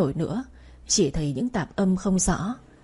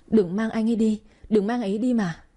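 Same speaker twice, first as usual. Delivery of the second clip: crying out, begging them to stop; sobbing plea. Acted. Narrator's sister begs them not to take him, sobbing. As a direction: wail it through tears. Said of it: "vừa gào khóc".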